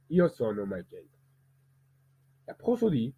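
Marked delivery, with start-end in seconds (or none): 0.1-1.2 Italian-language self-introduction, lower pitch. Shown as a demonstration. Teacher showing how his voice changes by language, Italian. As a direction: say the name line as in Italian. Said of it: "notre voix sont complètement différentes".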